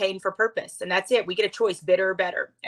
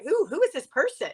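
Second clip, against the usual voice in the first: higher, laughing through it; laughing disbelief; 9 semitones higher than usual. Retold or imitated. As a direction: laugh while asking who. Reliving the surprise in locker room.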